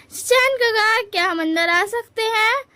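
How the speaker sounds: high, sing-out call at the door; playful calling out. Acted. Lejan playfully asking Shichen to let them in, calling out. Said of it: "लेजन तो एकदम मस्ती में बोलता है".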